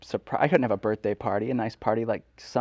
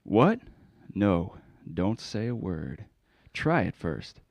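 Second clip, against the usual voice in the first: put-on a lightly accented scam pitchman; spam caller; 2 semitones lower than usual. Prank caller pitches a dating service to the host, lightly accented.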